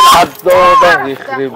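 slow, drawn-out howl; pained yell. Acted. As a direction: stretch it out like someone being bitten. Bitten again in acted fight. (صرخة وجع ممطوطة)

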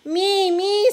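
high, loud eager me me. A narrator's reading. Oscar Lee eagerly volunteering to play. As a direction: jump at the chance. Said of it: "said Oscar Lee".

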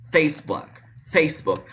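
"Facebook" repeated in two syllables, ending on k; no extra vowels. Shown as a demonstration. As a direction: close each "Facebook" on the k. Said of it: "a gente fala". ("Facebook" sem i no final)

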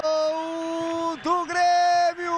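long stretched goal shout; explosive goal commentary. Real, not acted. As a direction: hold the goal call out. Goal call after the strike.

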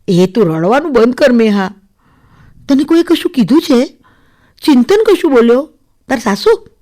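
insistent, concerned questioning; concerned friend. Acted. Friend asks crying bride who upset her, concerned. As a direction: probe for the cause with mild urgency.

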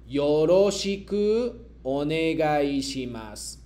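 slow, deliberate model sentence; slow model reading. Shown as a demonstration. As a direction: read it slowly for the class to repeat. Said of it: "yo leo y luego ustedes me repiten".

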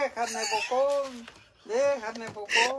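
teasing mock cry. Dad retelling his daughter's cries, teasing mock wail. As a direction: stretch it out as a mock plea. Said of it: "Gritaba, gritaba".

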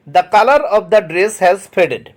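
very slow, word by word; slow dictation reading. Shown as a demonstration. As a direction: read it out slowly for the class to copy. Teacher reads example sentence aloud. (ধীরে ধীরে শ্রুতলিখনের মতো পড়া)

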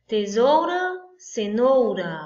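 Tesoura, cenoura called out high and loud. Shown as a demonstration. Teacher calling out the rhyme to the class, high and loud. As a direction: announce the rhyming pair loudly. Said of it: "Tá correto?".

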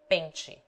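"Pente" with a nasal e. Shown as a demonstration. Tutor demonstrates the nasal e. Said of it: "E in paint".

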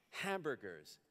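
mild bitterness. Acted. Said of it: "she says bitterly".

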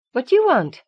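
snapping. A narrator's reading. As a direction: snap back at the girl, irritated. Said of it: "No need to snap".

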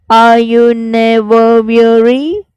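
breathy whisper, slowed; whispered line. Shown as a demonstration. Teacher whispering the poem's question to students. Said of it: "learnt the exact pronunciation".

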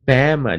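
"Bama" with weight on the first syllable, Ba; stress on Bama. Shown as a demonstration. Teacher showing the stressed third syllable of Alabama, stressed Ba. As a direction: lean on the Ba in "Bama". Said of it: "第三个音节是重音".

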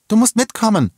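high, loud urging; urgent plea. A narrator's reading. Woman urges the girl to come along. (laut und eindringlich drängend)

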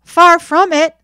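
loud, high, indignant retort; offended boy answering back loudly. A narrator's reading. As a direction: protest hotly, as if insulted. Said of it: "somewhat offended".

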